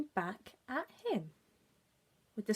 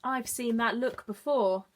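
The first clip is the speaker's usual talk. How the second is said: croaky frog voice; 3 semitones higher, 5 dB louder than usual. Acted. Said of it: "said a small croaky voice".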